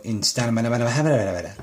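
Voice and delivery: drawn-out mock place name babble; mock a place name with gibberish. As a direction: trail the name into nonsense syllables. Mocks foreign place names with babble.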